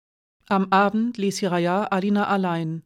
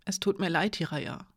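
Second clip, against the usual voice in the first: fading, much softer at the name; quiet apology; 7 dB quieter than usual. Acted. Alina apologising to Hiraya, quietly fading. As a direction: let the apology sink to almost nothing.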